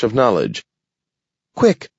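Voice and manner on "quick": shouting. A narrator's reading. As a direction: yell in sudden alarm. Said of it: "he shouted".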